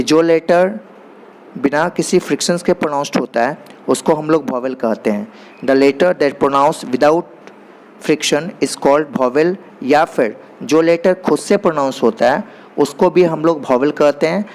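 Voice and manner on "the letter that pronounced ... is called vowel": English definition read out very slowly, word by word; slow dictation. Shown as a demonstration. Teacher dictating a definition to the class, very slow and deliberate. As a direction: spell it out slowly so students can write it down.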